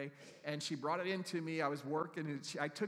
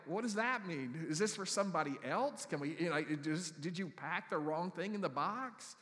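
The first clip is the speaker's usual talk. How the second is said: mock bewildered; 3 semitones higher, 5 dB louder than usual. Retold confused questions, slow.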